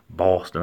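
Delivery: "Boston" with a rounded aw vowel; local Boston pronunciation. Shown as a demonstration. Telling viewers how we say "Boston", aw vowel. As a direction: say "Boston" plainly as BAW-stin. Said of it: "That's how we say Boston".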